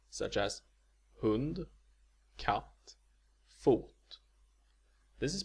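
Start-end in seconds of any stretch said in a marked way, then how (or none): 1.2-3.9 hund, katt, fot, each with one tonal peak; Swedish accent one. Shown as a demonstration. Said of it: "Accent one is found in".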